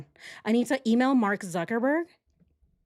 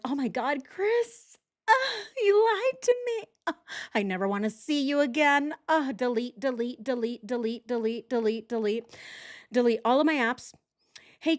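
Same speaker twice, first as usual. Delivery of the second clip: mock upset; 3 semitones higher than usual. Mocking the suspect phoning Chris, hammed-up fake sobbing. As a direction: ham up her fake heartbreak. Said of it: "So she's so upset. She's like".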